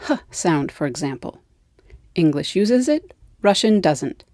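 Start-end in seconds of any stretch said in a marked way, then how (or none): 0.1-0.7 h said as a breathy puff of air; h sound. Shown as a demonstration. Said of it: "Take the".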